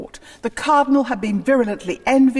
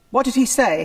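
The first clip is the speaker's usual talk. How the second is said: sharp, louder demanding question; urgent demand; 5 semitones higher, 6 dB louder than usual. Acted. King demands to hear the cardinal's last words, sharply. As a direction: press him hard for the answer.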